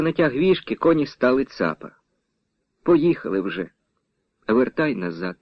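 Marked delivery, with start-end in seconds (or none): 2.8-5.4 quiet, low, bitter resignation. A narrator's reading. Girl giving up the chase, quietly and bitterly. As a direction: let the words sink, defeated and bitter. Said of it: "гірко сказала дівчина".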